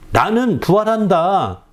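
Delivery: preacher voicing Jesus declaring he will rise; bold declaration. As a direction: announce it like a triumphant promise. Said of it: "주님은 당당히 말하고 있는 거거든요".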